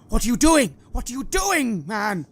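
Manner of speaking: high, loud panicked protest; horrified shouting. Acted. Priest stepping in front of the cleric, horrified shout. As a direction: cry out in horror at what you see. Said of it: "the priest's eyes widen in horror".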